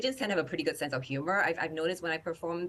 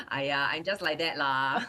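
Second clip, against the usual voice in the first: put-on light Singlish accent reply. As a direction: answer back in Singlish, laughing. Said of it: "Singlish cap".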